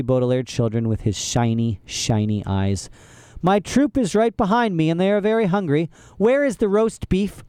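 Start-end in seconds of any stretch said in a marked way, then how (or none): 3.4-7.4 higher, pushy villain voice; demanding villain. Acted. Olaf demanding dinner for his troupe, bossy villain voice. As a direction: bark the demand.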